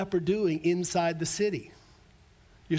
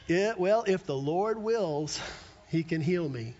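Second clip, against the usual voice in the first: doubtful resignation. Retold or imitated. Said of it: "this attitude that says".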